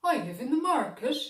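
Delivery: the dog eagerly answering; little dog voice. A narrator's reading. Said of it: "said Bingy".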